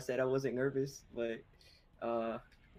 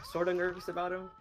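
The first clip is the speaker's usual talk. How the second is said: nervous laugh; 6 semitones higher than usual. Real, not acted. Nervous player laughing at himself.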